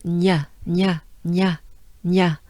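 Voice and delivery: "Nya" short, with French gn at the front; repeated punchy "nya", tongue pressed for "ny"; funny nya sound. Shown as a demonstration. Teacher works a little on the sound, funny nya sound. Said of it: "funny sounds".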